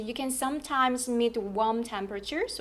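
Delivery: slow read, "temperatures" lifted at the end; rising intonation. Shown as a demonstration. Teacher models a list in the forecast, rising on "temperatures". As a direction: carry the tune up on "warm temperatures". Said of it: "올려주시고요".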